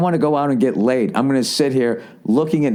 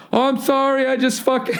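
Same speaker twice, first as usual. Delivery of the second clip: much higher, lisping-style stereotyped gay guy; hacky gay voice; 11 semitones higher than usual. Retold or imitated. Comic retelling the ass-smacker apologizing in a hacky gay voice. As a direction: camp it up, high and apologetic. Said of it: "I'm doing, like, the hacky gay voice".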